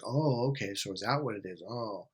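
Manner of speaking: low, soft going-along murmur; agreement frame. Retold or imitated. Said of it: "I was in my agreement frame going".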